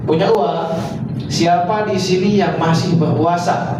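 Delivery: teacher demonstrating how to ask; questioning intonation. Shown as a demonstration. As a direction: ask Siapa di sini yang masih berpuasa? slowly with a rise. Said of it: "Pertanyaan intonasi seperti itu".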